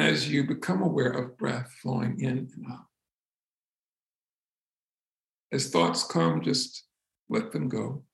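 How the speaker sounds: calm, unhurried meditation voice with long pauses; soothing, spacious delivery; guided meditation. Real, not acted. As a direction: gently guide them back to the breath. Leads a breathing meditation.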